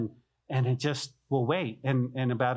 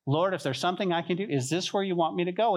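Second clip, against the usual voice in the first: praying; 3 semitones higher than usual. Pretend. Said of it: "inquire of the Lord when you go to Walmart".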